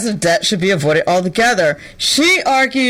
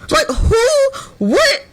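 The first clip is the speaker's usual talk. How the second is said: exasperated disbelief; much slower than usual. Real, not acted. Exasperated at young graduates.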